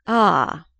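a loud, sudden Ah of realisation; sharp exclamation. A narrator's reading. Archer realising the visitor's mission, loud surprised Ah. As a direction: bark it out as it clicks. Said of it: "Archer exclaimed".

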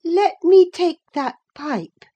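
high, loud demand; demanding Catherine. A narrator's reading. Catherine reaches for her cousin's pipe, high and demanding.

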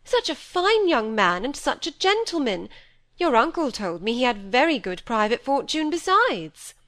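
a vain mother praising a rich suitor; gushing society mother. Acted.

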